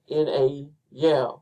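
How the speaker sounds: "in a, yeah" as two light beats, then a heavy YEAH; anapest stress. Shown as a demonstration. Teacher showing an anapest, stress on YEAH. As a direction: land firmly on "yeah" after "in a". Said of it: "that's an anapest".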